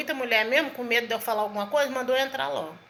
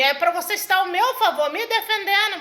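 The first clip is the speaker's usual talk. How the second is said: indignant reproach, pitched up; heated, higher-pitched scolding; retold anger; 6 semitones higher, 3 dB louder than usual. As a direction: re-enact an angry wife's complaint. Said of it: "eu fiquei com raiva do meu marido".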